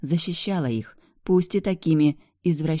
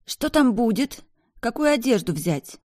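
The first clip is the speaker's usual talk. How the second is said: hoarse voice; 8 semitones higher than usual. A narrator's reading. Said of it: "хриплым голосом".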